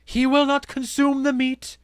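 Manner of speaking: high, loud proclamation; ringing, theatrical declaration; public announcement. A narrator's reading. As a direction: proclaim it to the whole crowd. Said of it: "announced Harmonia to her audience".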